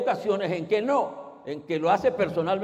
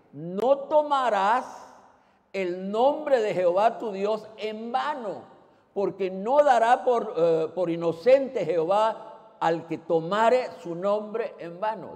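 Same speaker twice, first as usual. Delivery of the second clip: solemn scripture quote; slower than usual. Acted. Cita solemne de la Ley.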